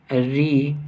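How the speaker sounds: री sounded alone as r plus ee; consonant-like री. Shown as a demonstration. Teacher showing how the written vowel is pronounced, demonstrative. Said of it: "क्योंकि इसका उच्चारण".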